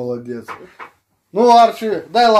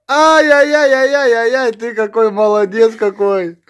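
high, loud, drawn-out cooing; gushing dog praise; 5 semitones higher, 6 dB louder than usual. Real, not acted. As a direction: fuss over the dog in delighted pet-talk.

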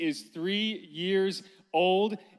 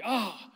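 raised-pitch mock cry of pain; dramatic groan; 5 semitones higher than usual. Dad imitating his son holding his stomach, dramatic groan. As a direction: act out a child's theatrical "ah". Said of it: "That's kinda dramatic".

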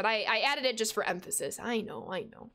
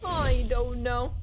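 drawn out; 4 dB louder, slower than usual. Shown as a demonstration. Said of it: "It'd be like this".

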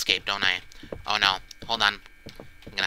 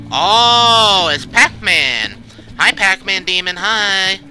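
surprised; 6 semitones higher, 6 dB louder, slower than usual. Real, not acted. Spotting the Pac-Man demon.

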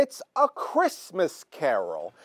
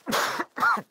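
fake cough. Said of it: "You don't sound like yourself".

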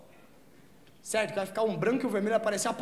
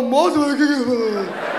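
mock lady asking; 3 semitones higher, 11 dB louder, slower than usual. Woman asks the stoned teller.

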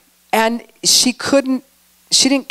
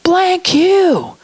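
angry retort; 10 semitones higher than usual. Retold or imitated. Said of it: "she's like".

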